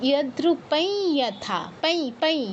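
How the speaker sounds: anusvara in "পাই" sounded as ee; nasal i sound. Shown as a demonstration. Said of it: "ই এর মতো sound হবে".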